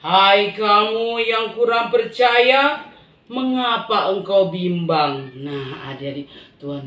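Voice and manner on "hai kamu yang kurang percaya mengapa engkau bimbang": gentle rebuke. Acted. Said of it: "Tuhan iko bilang".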